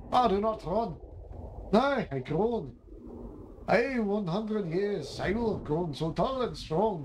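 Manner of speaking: lightly voiced woodcutter and trees in mock archaic speech; a hint of a storybook woodcutter arguing with trees; character voices. Voicing woodcutter and tree characters.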